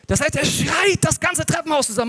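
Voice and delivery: aufgeregt erzählt. Real, not acted. Kind schreit im Treppenhaus.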